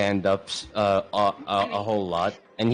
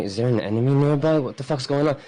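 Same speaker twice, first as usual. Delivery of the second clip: higher, louder startled thought; alarmed thought; 4 semitones higher, 3 dB louder, faster than usual. Acted. Leo wondering if an enemy is nearby, alarmed. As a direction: voice his sudden suspicion. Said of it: "like, he's thinking".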